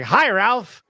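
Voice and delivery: put-on Scottish or British accent. Soccer player phoning a season-ticket holder, imitated British accent. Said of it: "I guess, Scottish, English, British accent".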